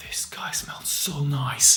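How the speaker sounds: slow, soft whisper of admiration. Retold or imitated. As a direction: whisper it as if admiring someone nearby. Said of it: "she'll be like".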